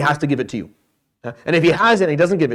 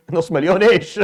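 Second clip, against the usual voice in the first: mock-incredulous, breaking into laughter; amused, laughing at the absurd figure; laughing disbelief; 2 semitones higher, slower than usual. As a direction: say it through a laugh. Mimics incredulous reply, laughing.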